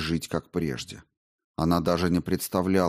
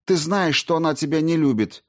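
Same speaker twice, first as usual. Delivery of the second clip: high, raised urgent voice; fierce demand; 9 semitones higher than usual. A narrator's reading. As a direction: demand he give her up. Olga pleading angrily.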